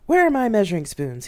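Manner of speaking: high, loud demand for an answer; irritated demand. A narrator's reading. Dad to mom while making dinner, irritated demand.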